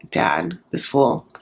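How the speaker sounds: slow whispered scorn, dragging each word; mock hushed put-down. Brother tipping off the dad about the groom, a hushed sneer. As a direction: lean in and whisper it like a snide tip-off. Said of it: "If the brother's like".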